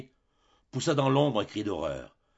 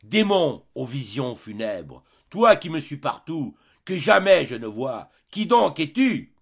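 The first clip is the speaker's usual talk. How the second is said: loud, high cry rising to the final question; desperate cry; 5 semitones higher, 8 dB louder than usual. A narrator's reading. The emperor to the vision that follows him everywhere, crying out. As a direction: cry out to the demon, louder and higher as it builds. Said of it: "Et lui cria".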